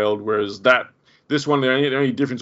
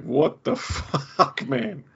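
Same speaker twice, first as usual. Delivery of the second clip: higher, slow, laughing through the shock; laughing disbelief; 6 semitones higher, 3 dB quieter, much slower than usual. Retold or imitated. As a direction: crack up while playing the shock. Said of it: "He's like".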